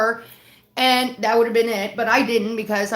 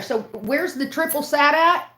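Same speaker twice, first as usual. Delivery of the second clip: higher, rising indignant rant; 3 semitones higher than usual. Real, not acted. Ranting at the absent server.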